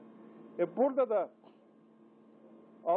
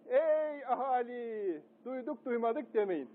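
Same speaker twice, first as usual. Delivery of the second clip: high, slow drawn-out proclamation; town crier; 4 semitones higher, slower than usual. Pretend. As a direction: call out to the whole square like a crier. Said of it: "Ben şimdi dellal oldum".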